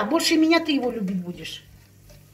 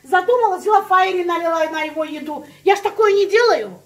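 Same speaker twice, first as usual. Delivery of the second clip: heated; 4 semitones higher, 4 dB louder than usual. Real, not acted. Heated retelling of revenge.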